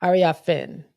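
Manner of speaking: "Ariafin" as AR-ee-ah-fin; tentative name pronunciation. Shown as a demonstration. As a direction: try saying "Ariafin" with an opening AR. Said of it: "I think is how they say it".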